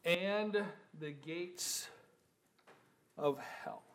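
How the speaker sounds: slow and soft, as if naming something dreadful; hushed and ominous. Acted. Preacher drawing the congregation in, slow hush. And listen.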